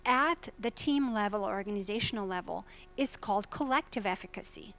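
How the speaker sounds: normal talking voice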